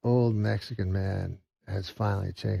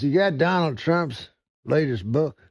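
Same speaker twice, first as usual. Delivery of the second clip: loud, high brash redneck demand; 7 semitones higher, 5 dB louder than usual. Retold or imitated. Big fat redneck demands a book from the owner, loud and high. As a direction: bark it like a pushy redneck.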